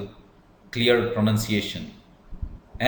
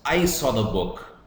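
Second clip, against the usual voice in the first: "I" stressed at the start, falling away after it; 2 semitones higher than usual. Shown as a demonstration. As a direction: lean on "I", letting "saw the book" drop. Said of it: "I is stressed".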